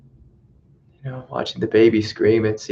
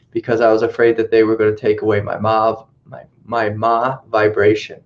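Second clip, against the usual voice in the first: put-on valley girl voice. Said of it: "like a valley girl".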